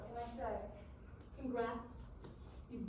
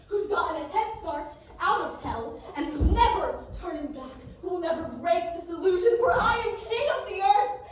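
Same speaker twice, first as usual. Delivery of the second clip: triumphant proclamation; 6 dB louder than usual. Acted. Son proclaims himself king.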